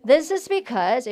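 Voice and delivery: This is because said very slowly with stress; slow model phrase. Shown as a demonstration. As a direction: drag out This is because. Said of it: "시작".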